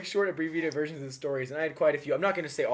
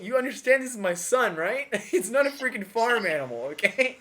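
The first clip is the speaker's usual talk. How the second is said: higher, louder mock indignation; offended father; 7 semitones higher, 3 dB louder than usual. Insulted father scolding the man who praised his donkey, mock indignant. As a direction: play the insulted dad, half-laughing.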